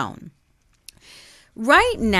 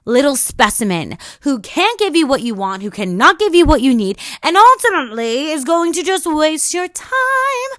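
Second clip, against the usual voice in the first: inner voice screaming; 4 semitones higher, 4 dB louder than usual. Pretend. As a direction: shout it as if the voice is in your face. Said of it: "until it's screaming in your face saying".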